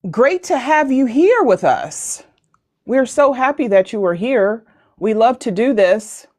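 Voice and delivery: robotic, glitchy stream sound. Real, not acted. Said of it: "Why do I sound like a robot?".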